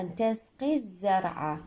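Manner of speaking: تسقي الزرع run together as "tasqi-zzar'a"; as if no article. Shown as a demonstration. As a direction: jump straight onto the doubled z in الزرع. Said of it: "كأنما ألف ولام ماكو هنا". (وصل بدون ألف ولام)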